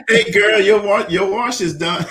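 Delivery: bright high chirpy machine voice; a friendly washer calling out; cheerful talking appliance. Pretend. Washing machine talking to you.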